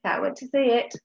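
quick, bright goodbye to the class; upbeat teacher farewell; fast, sunny goodbye to reception; cheery sign-off. Real, not acted. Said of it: "Happy learning reception".

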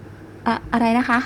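slow, stumbling, caught off guard; flustered stammer. Acted. Flustered girl answering the man's compliment, nervous stammer. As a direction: trip over the first word. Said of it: "แล้วเสียงแกจะสั่นทำไมเนี่ย".

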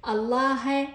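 الله said allahe, final h with open short vowel; voweled h ending. Shown as a demonstration. Teacher adding vowels for students, الله ending in he. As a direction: end الله on a clear he. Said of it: "خلي لها حركات".

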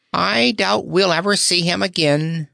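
high, gloomy groan; groaning dromedary. Acted. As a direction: moan it out like a doubtful camel. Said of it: "groaned the Doubtful Dromedary".

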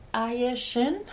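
Aye said the Spanish way; Spanish pronunciation. Real, not acted. Reading out a requester's name, Spanish pronunciation. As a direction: say Aye Shin with Spanish sounds. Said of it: "pronouncing it the Spanish way".

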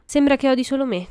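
a touch of amusement, pitch lifted; amused. A narrator's reading. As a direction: comment with playful amusement. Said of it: "commentò James divertito".

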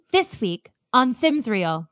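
slow, hushed true-crime host; podcast host. Acted. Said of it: "imagine those Sims true crime podcasts".

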